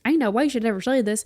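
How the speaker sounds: a little Southern twang slipping out; light American Southern accent. Real, not acted. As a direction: let a slight Southern accent creep in. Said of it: "A little Southern accent just came out".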